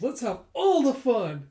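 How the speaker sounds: high, loud and gleeful; all-out excited little-kid voice; elated child cheer. Retold or imitated. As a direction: shout it like an overjoyed kid. Child cheering about the outing.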